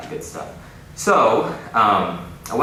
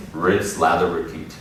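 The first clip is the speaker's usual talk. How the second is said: put-on kid reporter voice; 4 dB louder than usual. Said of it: "in my little reporter voice".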